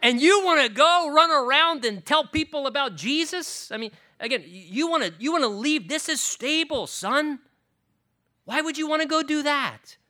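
loud, high Yiddish father voice; pleading Jewish dad, rising outrage; Yiddish accent. Acted. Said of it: "I guess it just comes out now".

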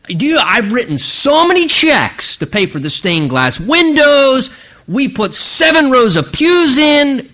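incredulous indignant rant; indignant disbelief. Acted. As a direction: protest like a wronged church donor. Voicing an indignant old churchgoer.

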